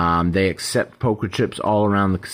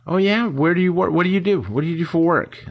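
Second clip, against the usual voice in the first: bright, much higher, eager questions; eager small talk; 9 semitones higher than usual. Retold or imitated. Coin trader eagerly quizzing a new acquaintance, high and bright. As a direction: perk right up and quiz them about their job.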